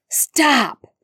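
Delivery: high, loud cry over the spells; desperate shout. Acted. Remus shouting over stunning spells, high and loud. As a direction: shout to stop the fight. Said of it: "shouted over the stunning spells".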